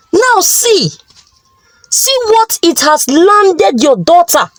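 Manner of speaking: mild hammed-up fury; angry husband. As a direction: scold the wife in hurt anger. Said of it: "He said angrily".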